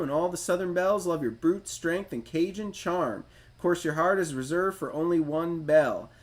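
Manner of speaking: put-on light generic Southern accent, reading the hero's bio. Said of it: "He's just gonna get a generic Southern accent whenever I do his voice".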